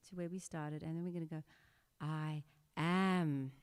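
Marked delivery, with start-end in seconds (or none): 2.0-3.5 "I am" sent out fuller and louder; projected outward. Shown as a demonstration. Teacher projecting "I am" outward. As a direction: project "I am" out into the aura. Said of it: "project that outward".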